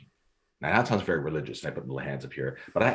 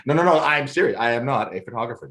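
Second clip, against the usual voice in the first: serious; 4 semitones higher, 5 dB louder than usual. Retold or imitated. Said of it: "I stop and I get serious".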